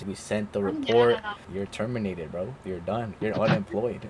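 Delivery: low, soft, matter-of-fact imitation; all-business manager. Manager telling him he is terminated, businesslike imitation. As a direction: deliver the verdict with understated finality. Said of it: "just about the job".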